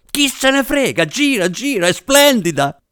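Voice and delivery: very high, feverish excitement; ecstatic director. A narrator's reading. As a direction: urge the crew on, carried away. Director ecstatic, orders filming on. (esaltato, voce altissima)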